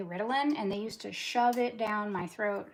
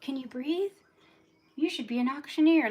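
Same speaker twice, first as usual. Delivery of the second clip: higher-pitched mimicry of people telling her off; mimicked nagging; 7 semitones higher, 4 dB louder than usual. Woman quotes everyone telling her to breathe, higher mimicking voice. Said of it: "everyone used to tell me".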